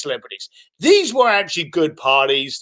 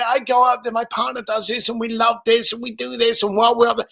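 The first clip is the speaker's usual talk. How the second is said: imitating an enthusiast's higher-pitched babble; bubbly excited; 4 semitones higher, faster than usual. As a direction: rattle on in a breezy singsong list. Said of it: "He's all bubbly talking about it".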